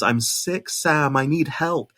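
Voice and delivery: put-on half-hearted Australian accent, quickly given up; failed Australian accent. Quoting the mother from the trailer in a failed Australian accent. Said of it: "I can't do an Australian accent".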